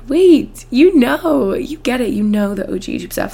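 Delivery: high excited burst, settling down by the end; starts high and loud, eases back to normal; excited gushing. Retold or imitated. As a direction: gush like you've found a kindred spirit. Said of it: "When I met her, I was like".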